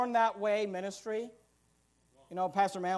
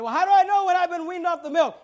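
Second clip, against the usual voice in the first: higher, louder naive asking voice; mock questioner; 8 semitones higher, 10 dB louder than usual. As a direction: play the doubting churchgoer, pitched up.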